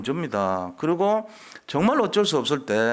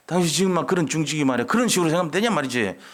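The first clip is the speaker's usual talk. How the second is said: mock stern rebuke; 3 semitones higher, faster than usual. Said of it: "얘기할 수 있어야 돼요".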